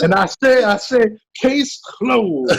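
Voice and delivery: hammed-up Southern advocate; mock Southern lawyer. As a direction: rest the case like a hammy attorney. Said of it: "that's how his lawyer sounds".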